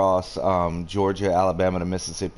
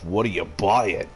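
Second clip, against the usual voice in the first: merchant voice. Retold or imitated. Telling a friend what his phone says, mild merchant voice. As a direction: mimic the shopkeeper's greeting lightly. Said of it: "merchant on my phone where it goes".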